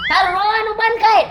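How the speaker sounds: father scolding his crying daughter; scolding shout. Acted. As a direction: shout at her to stop crying.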